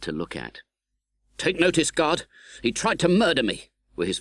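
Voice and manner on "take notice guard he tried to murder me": frightened plea. Acted. Frightened convict voice.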